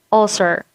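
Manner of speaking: "ulcer" with a short middle vowel in the first syllable; correct pronunciation. Shown as a demonstration. Teacher takes an example for the semi-vowel, correct "ulcer". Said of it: "You say ulcer".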